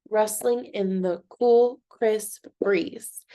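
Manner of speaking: Rustling in the cool, crisp breeze in measured beats; syllable by syllable. Shown as a demonstration. Teacher repeating for the count, Rustling in the cool, crisp breeze syllable by syllable. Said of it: "Let's look at the second one".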